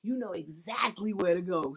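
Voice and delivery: quiet coaching; calm directing. Shown as a demonstration. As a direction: steer your partner plainly. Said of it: "learn how to just direct them".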